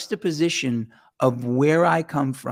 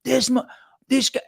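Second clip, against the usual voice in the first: mock outrage; 9 semitones higher than usual. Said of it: "they were like".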